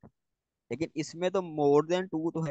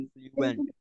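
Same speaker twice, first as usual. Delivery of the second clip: word said high; 12 semitones higher than usual. Shown as a demonstration. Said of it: "फ्लुएंट syllable दो हो गए".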